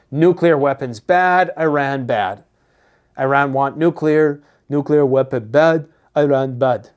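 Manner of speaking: lightly voiced blunt caveman talk; a hint of a dumbed-down newsman; mild mock simple-minded chant; caveman-style impression. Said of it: "my accents are way off today".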